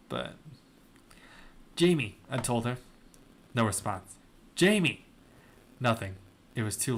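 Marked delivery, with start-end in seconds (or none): 1.8-2.2 calling her name. Acted. Calling to unresponsive friend. 4.5-5.0 louder, higher call of her name; urgent call to a friend who won't answer; calling out loudly. Acted.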